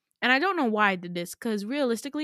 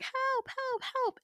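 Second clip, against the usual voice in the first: mock screaming; 5 dB quieter, much slower than usual. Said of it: "like, screaming".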